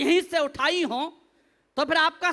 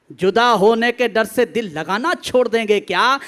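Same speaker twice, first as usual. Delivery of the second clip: verse declaimed at full volume; forceful, booming stage poetry; loud recitation; 6 semitones lower, 8 dB louder than usual. Acted. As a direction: project the line hard to the back of the crowd. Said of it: "ताकि मैं तेज ना बोलूं".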